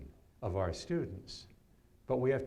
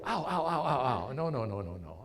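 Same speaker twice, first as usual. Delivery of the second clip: higher, louder no-no-no, laughing it off; retold loud protest; 3 semitones higher, 4 dB louder than usual. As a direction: brush off the compliment loudly, a bit mocking. Protests being called wealthy.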